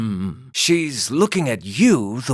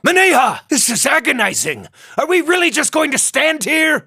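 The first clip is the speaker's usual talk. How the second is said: impatient exclaiming; 11 semitones higher than usual. Acted. Impatient companion complains loudly.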